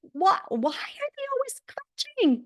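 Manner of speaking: high, puzzled outburst; mock disbelief at the people; incredulous friend. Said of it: "She was like".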